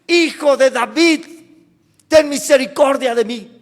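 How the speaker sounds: loud pleading call. Acted. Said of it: "Clamaba aún más".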